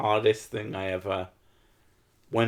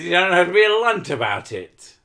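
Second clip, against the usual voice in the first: confrontational retelling; 6 semitones higher, 5 dB louder than usual. Retold or imitated. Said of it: "he got in my face and said".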